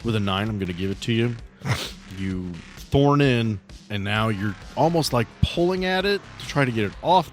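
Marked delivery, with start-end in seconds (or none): none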